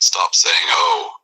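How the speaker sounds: screaming. Acted. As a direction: shriek the oh up top. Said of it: "he is screaming at this point".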